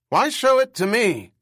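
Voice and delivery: put-on high, loud, screeching old man; shrill up top like an aging bird. A narrator's reading. Old boss squawking at his employee in a high screech. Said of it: "only his bird screech voice".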